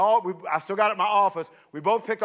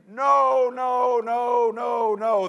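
distant shouted echo, higher; 4 semitones higher, much slower than usual. Retold or imitated. Reno's call echoing back to him, shouting. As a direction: sound like an echo off the mountain.

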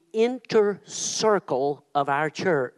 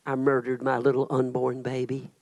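mild retold confession; 7 semitones lower, 5 dB quieter than usual. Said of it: "She said".

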